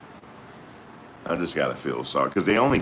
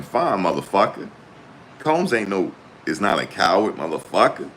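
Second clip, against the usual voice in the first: talking tough like Combs, lightly done; Combs impression; 3 semitones higher than usual. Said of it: "That's how he said it".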